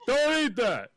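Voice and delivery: high mock yell; sudden high-pitched alarm, re-enacted; retold warning yell. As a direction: cry out an urgent warning.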